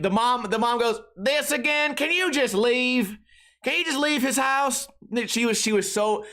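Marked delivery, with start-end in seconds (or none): 1.2-4.9 high, slow, exasperated mom; weary mom imitation. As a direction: play a fed-up mom.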